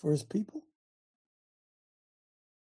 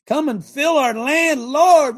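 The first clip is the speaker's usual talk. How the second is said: high, louder pleading prayer; praying voice; 8 semitones higher, 6 dB louder, slower than usual. Acted. Preacher acting out a proper prayer, high pleading. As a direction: cry out to the Lord. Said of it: "Rather than".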